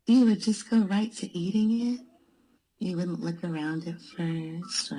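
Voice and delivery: voice changer. Pretend. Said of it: "this is the speaker with a voice changer".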